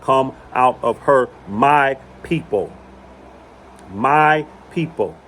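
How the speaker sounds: slow, solemn heavenly call; mock heavenly call. Quoting Revelation to viewers, slow solemn proclamation. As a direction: stretch it out like a voice from heaven. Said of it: "the loud voice crying out from heaven".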